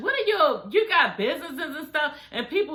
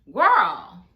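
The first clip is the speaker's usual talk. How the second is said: incredulous outburst; 6 dB louder than usual. Real, not acted. Incredulous reaction to the question.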